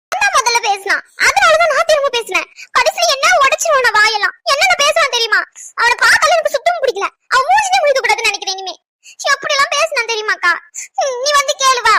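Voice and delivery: high, upset tattling through tears; crying, aggrieved appeal for backup; tearful complaint. Acted. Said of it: "ஏன்டி அழுகுற?".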